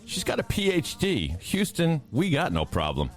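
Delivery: grand, theatrical verse recital; dramatic poem reading. Acted. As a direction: read it like an epic space ode. Reads a cosmic tribute poem.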